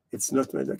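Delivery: low, soft deadpan punchline; joke punchline. Acted. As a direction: drop it quietly and low. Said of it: "the punchline of the joke is".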